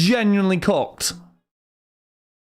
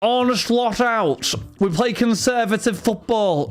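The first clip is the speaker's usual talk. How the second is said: slow, higher mocking impression of a radio pundit; 5 semitones higher, slower than usual. Streamer mocks a Talksport pundit with a slow, higher, waffling voice. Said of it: "He was waffling".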